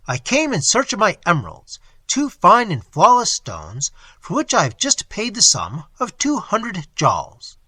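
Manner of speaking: high, loud and urgent, slowing on stones; pleading in rising panic; frantic explanation. Acted. Moneylender explains himself to the monster, loud and frantic.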